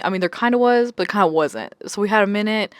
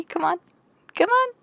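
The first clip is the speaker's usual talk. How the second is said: exasperated plea; 11 semitones higher than usual. Real, not acted. Exasperated at fantasy men.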